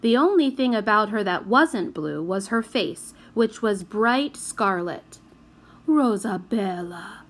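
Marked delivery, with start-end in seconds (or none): 5.9-7.2 put-on gently soothing a sulking child. A narrator's reading. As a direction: coax her gently by name. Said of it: "said Signor Madeline soothingly".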